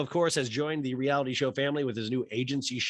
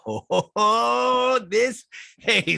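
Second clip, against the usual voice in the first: surprised; 11 semitones higher, 7 dB louder, much slower than usual. Real, not acted. Reacts to the Norfolk slip.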